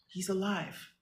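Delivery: quiet self-reassurance. Real, not acted. Mother murmuring to herself that her son lives, quietly.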